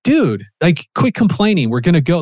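a father telling his son to stop complaining; escalating dad. Retold or imitated. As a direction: lightly act out a dad snapping at his kid. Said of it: "so it would have been".

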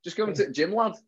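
broad Yorkshire, the "the" cut down to a tut; Yorkshire accent. Shown as a demonstration. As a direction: show off your Yorkshire dialect. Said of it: "if you just start putting tut".

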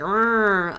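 drawn-out quad engine rev; imitated engine noise. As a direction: imitate an approaching four-wheeler. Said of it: "I just hear this".

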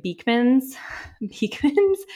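tentative, rising on the repeat of Beekman's; questioning stab at saying Beekman's; unsure pronunciation. Real, not acted. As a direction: try the name out, unsure, with a laugh. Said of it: "I hope I say this right".

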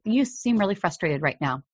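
put-on parent to sassy kid, gently validating; gentle empathy. Shown as a demonstration. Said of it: "instead say".

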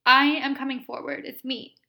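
loud, insistent I'm-here voice; a husband's spirit insisting on being heard, loudly; spirit's loud announcement. Retold or imitated. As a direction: announce yourself firmly. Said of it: "He made it very loud".

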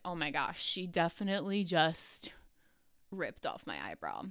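soft, breathy-low mock panic, half under the breath; a retold private gasp of alarm, very soft; hushed inner panic. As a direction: mutter the dread to yourself. Inner panic during waxing.

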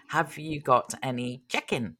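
put-on check-in clerk in a light Kiwi accent; lightly imitated New Zealand accent, "check-in" close to chicken. Clerk asking dad at the desk, mild Kiwi accent. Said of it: "because the Kiwi accent, she said".

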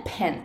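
ペン with a long, aspirated P; 長い子音. Shown as a demonstration. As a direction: let the air linger on the P of ペン. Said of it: "子音もすごく長く発音すると". (息の長いPのペン)

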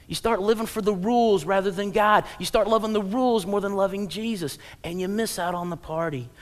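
ordinary delivery

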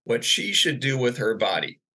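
high-pitched indignant confrontation; high, stretched-out accusing questions, not truly shouted; mock yelling. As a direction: imitate an outraged woman demanding answers. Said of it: "she's yelling at me".

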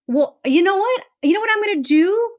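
a hint of a determined mother; imagined mom. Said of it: "I'm imagining my mom".

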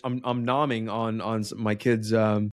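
chewing while talking; talking through candy; mouth full. Real, not acted. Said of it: "I apologize if you can hear me chewing".

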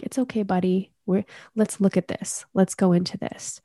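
softly reassuring, like a friend talking you through it; gentle and patient, coaxing; kind inner voice. Retold or imitated. Inner voice coaxing yourself gently, kind and soft. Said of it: "Are you speaking in a kind voice?".

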